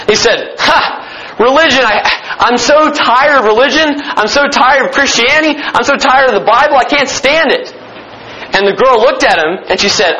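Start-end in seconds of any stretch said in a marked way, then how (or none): 0.6-7.7 a scoffing laugh, then pitched higher with contempt; scornful scoff. Acted. Skeptic scoffs at the girl's answer, pitched higher and contemptuous. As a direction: sneer it like a fed-up skeptic.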